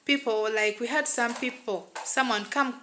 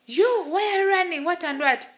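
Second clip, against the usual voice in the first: much higher, raised voice imitating dad; retold shout; 8 semitones higher, 4 dB louder than usual. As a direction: call out like a father scolding a runner. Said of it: "this my dad shouted at me".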